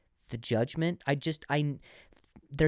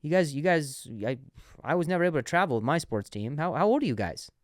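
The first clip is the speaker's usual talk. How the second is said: put-on old man voice; 4 semitones higher, 4 dB louder than usual. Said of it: "he goes".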